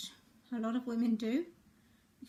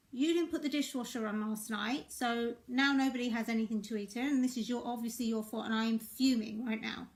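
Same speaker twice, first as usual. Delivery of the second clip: blaming. Shown as a demonstration. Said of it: "It sounds really different to".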